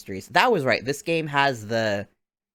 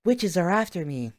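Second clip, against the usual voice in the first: high-pitched mock panic; mock alarm; 8 semitones higher than usual. Mocking Luke ten minutes later, alarmed. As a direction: imitate a boy suddenly scared, pitched up. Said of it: "Ten minutes later".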